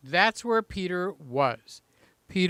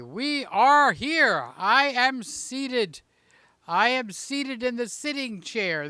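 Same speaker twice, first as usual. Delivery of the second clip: slow, stately, higher declaration; mock-formal announcement; 4 semitones higher than usual. Host declares his arrival to viewers, slow and mock-grand. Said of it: "mock-formal announcement".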